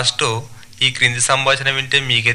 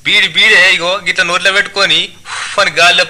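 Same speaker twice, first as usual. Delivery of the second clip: higher, animated dialect voice; tailor explaining impatiently; 5 semitones higher, 5 dB louder than usual. Acted. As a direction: spell it out loudly for a stranger. (అసహనంగా వివరించే దర్జీ, యాసలో)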